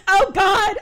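high laughing yell. Acted. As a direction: yell it while cracking up. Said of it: "yelled Elliot".

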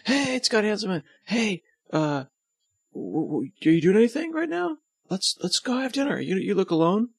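high, laid-back surfer dude; lightly voiced surfer dude. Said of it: "so I'll just make them surfer dudes".

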